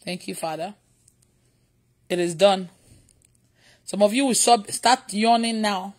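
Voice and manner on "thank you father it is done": low, soft thanks to God; hushed, intimate prayer; quiet prayer. Real, not acted. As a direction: pray softly, low and settled. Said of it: "talk to God in my mind".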